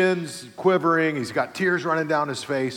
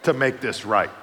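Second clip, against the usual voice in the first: laughing mock threat. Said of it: "this is what I'm thinking in my mind".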